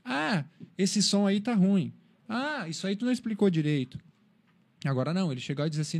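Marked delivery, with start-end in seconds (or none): 0.0-4.0 mock criticism. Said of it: "receber uma crítica dizendo assim".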